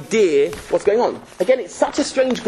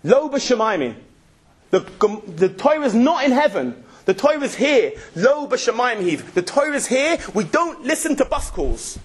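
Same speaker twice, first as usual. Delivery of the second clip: higher, triumphant declaration; a touch of triumphant fervour; emphatic declaration; 5 semitones higher than usual. Acted. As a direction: proclaim it with growing conviction. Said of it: "he looks and he says".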